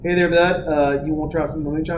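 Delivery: put-on Kentucky accent with gum in the lip; marbles in mouth. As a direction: talk with gum in the front lip. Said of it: "so I can really get this accent down".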